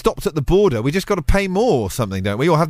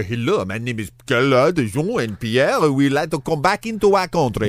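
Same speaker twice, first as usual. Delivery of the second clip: mock French accent; slower than usual. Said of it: "French-looking berets and some striped tops".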